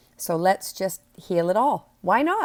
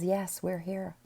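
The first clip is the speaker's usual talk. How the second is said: very calm; 6 dB quieter, slower than usual. Acted. Your own inner voice answering when you call the angels, very calm. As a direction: answer quietly, with no alarm. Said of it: "your own voice very calmly says".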